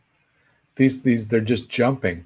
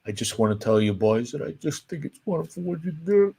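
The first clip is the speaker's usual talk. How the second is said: soft voice, welling up with emotion; choked up; 3 semitones higher, 6 dB quieter than usual. Retold or imitated. Emotional comedian thanking two young performers, choked up. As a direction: imitate a comedian too moved to speak up. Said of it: "then he got emotional".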